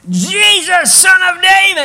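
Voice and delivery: full-force high bellow. Retold or imitated. Blind beggar raising the decibels at Jesus, full bellow. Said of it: "he just starts bellowing out".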